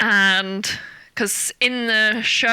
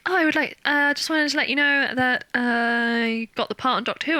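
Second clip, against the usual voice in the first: casting agent; 3 semitones higher than usual. Retold or imitated. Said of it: "she was like".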